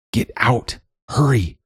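high, pressing warning; urgent call. A narrator's reading. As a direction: hurry her out in alarm. Bird urges escape.

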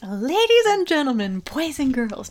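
announcer voice, ladies and gentlemen; big theme park welcome; grand entrance announcement. Pretend. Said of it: "go full Disney cast member".

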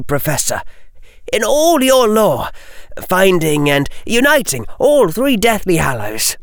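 put-on pleading, high boyish voice; urgent young wizard pleading; earnest young Harry.

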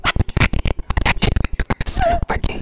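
fast high robocall rant. Pretend. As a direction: rush it like a spam call. Robocall parody, loud fast.

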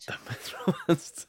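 hushed, breathy echo of the news; stunned whispered repeat. Acted. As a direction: breathe it out like a shocked secret. Dramatic echo of shocking news.

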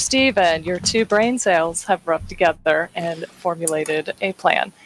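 put-on lapse lightly into a Southern US accent; slightly Southern scolding of a teammate. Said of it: "my voice got really southern".

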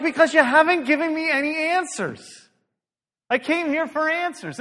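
loud, high-pitched complaint; hammed-up demand for answers; exasperated retold protest. Pastor retelling his protest to the group, loud exasperation.

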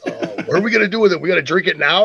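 high, rushed, eager questioning; Wally. Retold or imitated. Excited friend asking about the keg, eager imitation. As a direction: mimic an overexcited pal firing questions. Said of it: "Wally was so excited".

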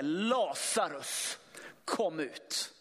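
långsamt, utdraget och lågmält rop, bara lätt spelat; Jesus ropar lätt. Acted. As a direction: en lätt antydd, långsam Jesusröst som kallar. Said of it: "Det ropet". (långsamt och lågmält kallande rop)

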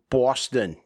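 light mock Boston accent; Bostonian accent. British podcaster imagining himself American, Bostonian accent. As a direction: say it like a Boston native. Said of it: "how good my Bostonian accent is".

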